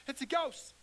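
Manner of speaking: frightened disciples, whispered high; scared whisper. Retold or imitated. Disciples seeing a figure on the lake, frightened whisper. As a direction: hush it out in fear. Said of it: "They scared".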